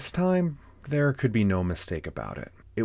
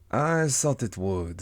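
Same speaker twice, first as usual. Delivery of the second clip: higher, slow cat drawl; Cheshire Cat; 4 semitones higher, slower than usual. Acted. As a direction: stretch it out knowingly as a storybook cat. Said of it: "said the cat".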